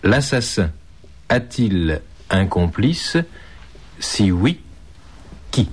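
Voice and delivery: slow, spaced out. Shown as a demonstration. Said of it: "Je répète".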